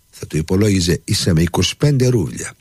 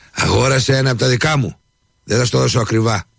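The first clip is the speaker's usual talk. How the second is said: higher, eager sales pitch; eager exclamation; 9 semitones higher than usual. A narrator's reading. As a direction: jump at the chance of a deal. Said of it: "ξεφώνησε". (ενθουσιώδες ξεφώνισμα, ψηλότερα)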